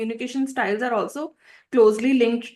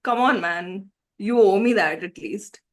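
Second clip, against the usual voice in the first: scoffing passive aggressive. Acted. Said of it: "let's do passive aggressive".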